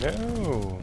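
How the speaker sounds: high, drawn-out wail of refusal; real gamer's dismay. Real, not acted. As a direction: let it swoop up high and fall away. Dismayed reaction during the game.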